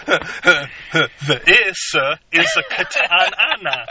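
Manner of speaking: very slow, halting, laughing read sounding out each word; phonetic line reading. Retold or imitated. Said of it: "So it's all phonetics".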